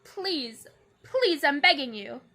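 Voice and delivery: loud, laughing, desperate begging; laughing pleading. Real, not acted. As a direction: beg through helpless laughter. Pleading with broken stand.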